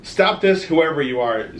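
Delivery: high, loud defiant shout. Acted. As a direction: shout to stop the army. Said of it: "Zach shouted".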